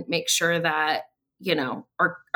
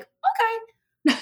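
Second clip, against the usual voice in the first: sarcastic okay; 14 semitones higher than usual. Retold or imitated. Reacting to kids saying no.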